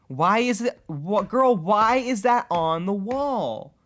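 high, loud, stretched-out wail; exasperated disbelief. Real, not acted. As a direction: plead with the character in outraged disbelief. Ranting at the character in disbelief.

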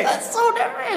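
high, stunned, stretching the so; real shock at learning the news; sky-high astonished exclamation; shocked disbelief. Real, not acted. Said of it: "Nick is freaking out".

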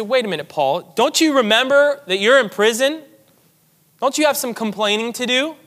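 a listener challenging Paul with disbelief; incredulous objector. Retold or imitated. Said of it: "wait, you might say".

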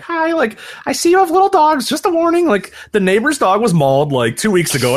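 put-on high-pitched little old lady from Chicago; stereotypical Chicago accent. Neighbor warns new arrivals about coyotes, mock Chicago accent. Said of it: "a stereotypical Chicago accent".

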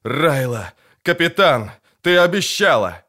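wounded soldier crying to his captain; dying shout. A narrator's reading. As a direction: call out to the captain with his last breath. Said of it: "успел только крикнуть".

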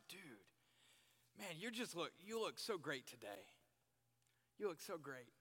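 sincere, easy "you look so great"; mean every word of it; honest friendly praise; genuine compliment. Shown as a demonstration. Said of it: "And it's genuine".

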